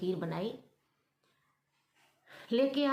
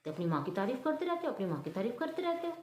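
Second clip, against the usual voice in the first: flaring up; 2 semitones higher, faster than usual. Acted. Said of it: "पलक तो भड़क जाती सुन के".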